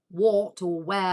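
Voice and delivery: a touch of broad Cornish on "what or where"; Cornish accent. Shown as a demonstration. Guest showing which words give away her accent, Cornish accent. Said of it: "it's when you say".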